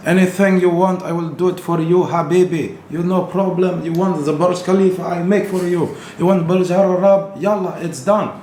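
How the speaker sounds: put-on high-pitched Arab accent, eager to serve; hammed-up high Arab accent. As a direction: promise her everything in a put-on Arab accent. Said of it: "this is my Arab accent".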